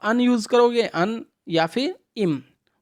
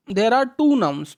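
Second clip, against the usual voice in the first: slow read-aloud; much slower than usual. Shown as a demonstration. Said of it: "reads slowly".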